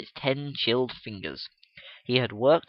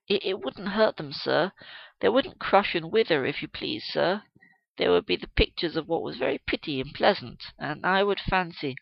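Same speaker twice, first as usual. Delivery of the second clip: put-on timid girl; 5 semitones higher than usual. Young girl pleading timidly.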